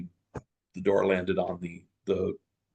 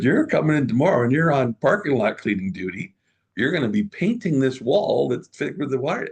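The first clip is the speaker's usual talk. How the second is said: higher, louder playful orders; animated boss orders; 6 semitones higher, 5 dB louder than usual. Retold or imitated. Boss assigning cleanup duty to employee, higher and louder. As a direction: lay out her punishment with gleeful energy. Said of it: "I said".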